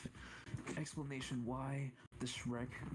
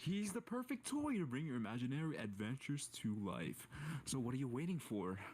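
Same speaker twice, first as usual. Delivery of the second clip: storyteller voice. Acted. Mock commercial storyteller pitch.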